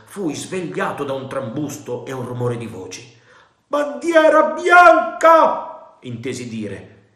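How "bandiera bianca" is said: loud, slow, far-off call of a sailor; shout from outside. A narrator's reading. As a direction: bellow it across the stockade. Sentinel hails the stockade.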